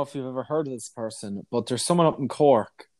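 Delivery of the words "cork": posh Galway Cork. Real, not acted. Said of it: "Did you hear the way I said Cork?".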